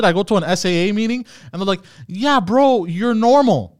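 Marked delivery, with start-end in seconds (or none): 2.1-3.8 bro voice. Pretend. Imagined SAA members reassuring him.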